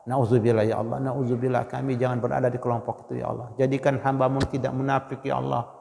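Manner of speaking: quiet trembling plea for refuge; hushed fearful prayer. Real, not acted. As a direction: beg God under the breath. Fearful whispered plea to God.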